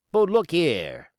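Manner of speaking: loud, slow rough sailor; a surly old hand; gruff coxswain voice. A narrator's reading. Israel Hands speaks.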